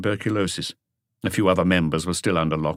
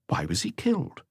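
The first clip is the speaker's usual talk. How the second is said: higher voice for the junior officer; voiced officer; 13 semitones higher, 5 dB quieter than usual. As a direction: report it as the other officer. Officer asks Maigret.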